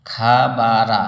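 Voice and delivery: খা বা রা said full-mouthed as a recitation demo; heavy Arabic sound. Shown as a demonstration. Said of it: "উচ্চারণ হবে".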